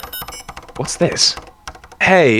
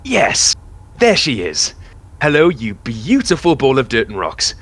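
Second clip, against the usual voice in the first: excited; 2 semitones higher than usual. Acted. Ship arrives at the planet.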